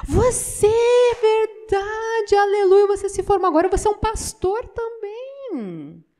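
a friend amazed at the news; excited greeting. Retold or imitated. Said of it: "falou assim". (surdo animado ao encontrar o pastor)

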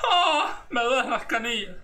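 high, crying moan about aching shins; whimpering complaint. Shown as a demonstration. Creator demos grandma's complaint with a fake cry. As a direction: whine like your shins are killing you. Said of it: "Se dice".

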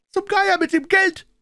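very high, loud outburst; furious cursing. A narrator's reading. Blind man dismissing the find, furious cursing. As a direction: curse it away at a shout. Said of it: "fluchte der Blinde".

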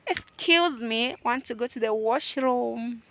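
lightly voiced casual adult asking to leave; grown-up casual. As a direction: mutter it like a bored adult. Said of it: "We are like".

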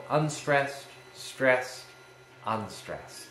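measured teacher's demo of unstressed, stressed, unstressed; amphibrach stress pattern. Shown as a demonstration. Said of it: "And then an amphibrach".

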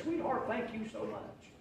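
soft, slow, gracious; modeling how to accept her gift kindly; tender thanks. Shown as a demonstration.

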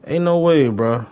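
high, loud disbelief. Real, not acted. Reacting to a teammate splurging money, loud disbelief. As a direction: yell it like you can't believe it.

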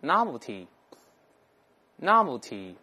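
novelty drawn out very slowly, each syllable clear; model reading. Shown as a demonstration. Teacher drills the new word, slow and careful. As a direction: read novelty slowly twice for students. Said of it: "我们再读一下".

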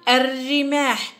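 الرماح slowly, doubled r and no L; silent lam. Shown as a demonstration. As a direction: hold the r of الرماح. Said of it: "وجميعها لم ننطق اللام".

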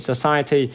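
society repeated with a schwa first syllable; model pronunciation. Shown as a demonstration. Teacher repeating society for students, model pronunciation. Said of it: "mình sẽ đọc là society".

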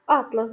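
Атлас said as а́тлас, the map book; stress on the first syllable. Shown as a demonstration. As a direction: put the stress at the start of Атлас. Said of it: "збірка мап". (наголос на першому складі: а́тлас)

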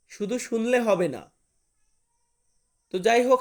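ordinary talk

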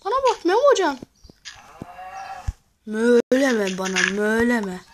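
loud mock-scolding of the animal. Real, not acted. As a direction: bellow at the mob to stop. Yells at a mob.

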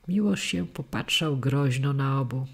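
usual speaking voice

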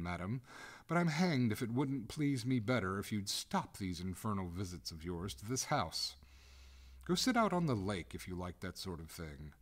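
lightly voiced master scolding a ghost; indignant master of the house. Master of the house protests to the ghost, mildly indignant.

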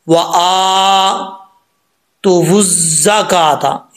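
वुज़्ज़ा with the waw voiced; wrong reading. Shown as a demonstration. Teacher imitating the mistake, slightly slow. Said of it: "ये गलत है".

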